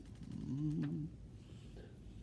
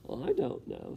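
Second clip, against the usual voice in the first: Mig's low mumble; 8 semitones lower than usual. Acted. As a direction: lower dull mumble. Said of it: "said Mig".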